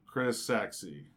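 slow, low, drawn-out seductive read; suggestive reading. Retold or imitated. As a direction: read the text like a come-on. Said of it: "as the way I read them to us".

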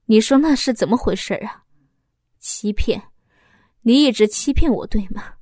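bitter, rising accusation; pained accusation. Acted. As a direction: hurl the betrayal back at her. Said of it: "痛苦地说着". (丈夫痛苦地质问出轨的妻子)

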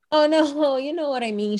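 squeaky, high, backpedalling with a nervous laugh; high mock flustered asker. A woman mimicking a flustered stranger backpedalling with a laugh. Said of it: "people are like".

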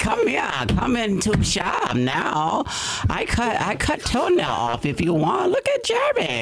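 high, drawn-out mock Asian accent; hammed-up Asian accent, swooping high. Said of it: "Okay, got the Asian".

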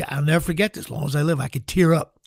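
ordinary talk

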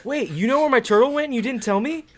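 high, shocked outburst of disbelief; mock shocked. Contestant learns the truth about his lost turtle, high mock shock. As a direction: leap up in pitch, outraged surprise.

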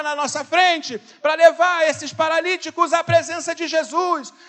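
loud, high, driving sermon voice; preaching at full force. Acted. Pastor urging the church to call lonely people, preaching at full force. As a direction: push every line out to the whole church.

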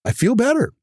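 relieved dentist. Retold or imitated. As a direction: dentist thrilled to finally see cash in the bank. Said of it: "You're like".

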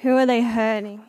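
laughing through the question; words breaking into laughter. Real, not acted. Laughing at own furry joke.

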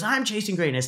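high, eager crowd chant imitation; imitating a hyped crowd. Crowd answering the coach, mock hyped. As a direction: mimic a fired-up audience answering. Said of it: "They're super hyped".

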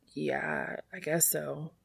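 soft unvoiced whisper, barely there; whispered admission. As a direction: breathe the words out, almost inaudible. Dean admits feelings after crying.

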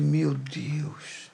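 soft, breathless sigh of giving in; resigned whisper. Retold or imitated. Giving in to God, a soft resigned whisper. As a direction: whisper it, defeated. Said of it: "Aí eu falei".

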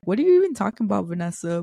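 playful imitation of someone confused; incredulous friend. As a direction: rattle it off as a baffled friend. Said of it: "they'll say to me".

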